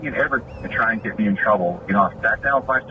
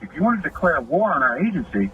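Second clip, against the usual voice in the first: retold warning; 5 semitones higher than usual. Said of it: "I was like".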